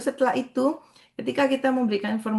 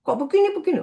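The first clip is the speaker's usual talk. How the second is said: sharp, fast, much higher rebuke; mock public scolding; 14 semitones higher, 4 dB louder, much faster than usual. Preacher mimics rebuking someone before a crowd, high and sharp. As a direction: snap at someone like a harsh scold. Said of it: "mau menegur atau ngomongin orang di tengah banyak orang".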